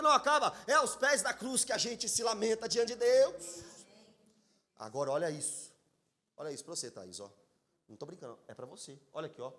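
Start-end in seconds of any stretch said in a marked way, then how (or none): 4.8-9.5 much softer, close and personal; quiet personal aside. Real, not acted. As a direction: lower the voice to speak to one person. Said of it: "speaks directly to grieving Thaís".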